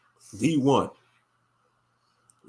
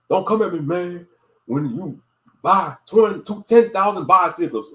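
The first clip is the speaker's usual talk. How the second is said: imitating a rapper. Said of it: "Rick Ross sounded like he was out of breath".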